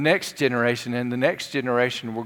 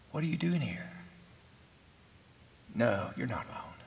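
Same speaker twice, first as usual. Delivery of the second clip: soft echo; 10 dB quieter, faster than usual. A narrator's reading. Still small voice echoed.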